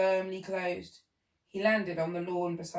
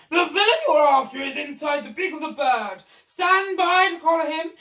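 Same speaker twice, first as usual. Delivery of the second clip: loud, high commanding shout; shouting orders; 7 semitones higher, 10 dB louder than usual. Acted. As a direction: direct the police with bluster. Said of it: "the Duke was shouting to them".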